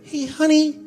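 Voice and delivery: annoying needy voice. Retold or imitated. Partner asking honey after three months, high whine. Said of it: "that annoying f-, greedy thing".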